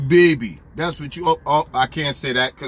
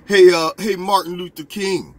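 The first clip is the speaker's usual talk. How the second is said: loud mock call across the room; mock greeting; 4 dB louder than usual. Stranger loudly hailing him by a nickname. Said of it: "somebody came up to me and said".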